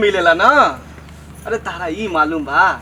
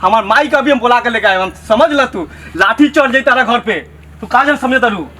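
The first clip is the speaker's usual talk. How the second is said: raised, indignant scolding; offended outburst; 3 semitones higher than usual. Acted. Villager insulted about his looks threatens sister-in-law, indignant. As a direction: hit back with wounded pride.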